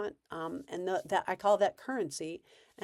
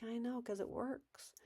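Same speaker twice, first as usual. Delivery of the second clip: calm reply; 4 semitones higher, 14 dB quieter than usual. Shown as a demonstration. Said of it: "'cause you're being calm".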